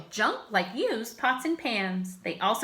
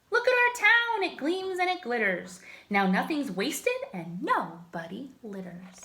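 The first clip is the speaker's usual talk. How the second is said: proud townsfolk; 3 semitones higher than usual. Acted. Townsfolk proudly show their town.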